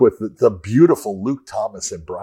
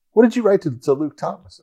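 wife asking; 9 semitones higher than usual. Retold or imitated. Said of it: "my wife, she looks and says".

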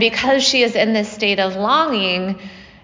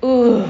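inhaled sigh; 4 dB louder than usual. Retold or imitated. Shiva sighing in awe at the goddess, an inhaled "Ooh". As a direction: draw the breath in with wonder, lightly. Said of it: "He says on the inhale".

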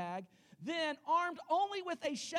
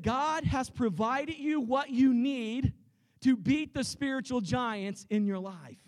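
preacher booming the line a second time; loud repeat; 7 dB louder than usual. Shown as a demonstration. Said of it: "I said".

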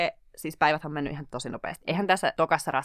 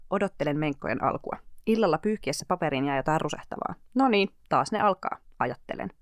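audiobook reading. Acted. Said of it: "mikään niinku äänikirjan lukuhetki".

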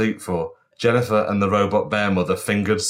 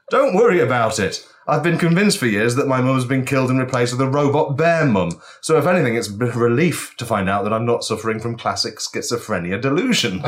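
character voice; 3 semitones higher than usual. Acted. Character speech in story.

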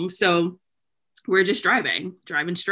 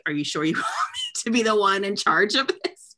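whispered doubt; 3 semitones higher than usual. Retold or imitated. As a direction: whisper it nervously to mom. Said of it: "And I was like".

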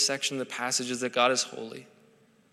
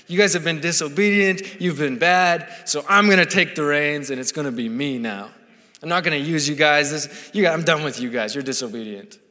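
a stern, fed-up God scolding, louder; condemning voice; 4 dB louder than usual. Retold or imitated. God scolding disobedient Israelites in a condemning, louder voice. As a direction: imitate a harsh judge who is done with them. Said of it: "you can almost hear this voice, like, God saying".

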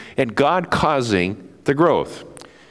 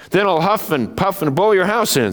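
wolf voice; 7 semitones higher than usual. Acted.

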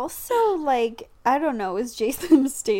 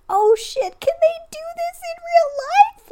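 much higher, louder amazed oh shit; excited; 7 dB louder than usual. Retold or imitated. Watching the car stunt, thrilled and amazed. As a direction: gasp it out in thrilled disbelief. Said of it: "And even I was like".

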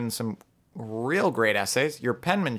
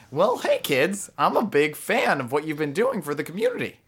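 cheesy counselor voice; 5 semitones higher than usual. Acted. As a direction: play an overly chummy counselor. Guidance counselor character intro.

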